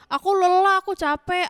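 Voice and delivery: high, loud mock complaint of tiredness; complaining villager. Worker excusing himself to Hagai, acted tired complaint. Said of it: "Ada juga yang bilang nih".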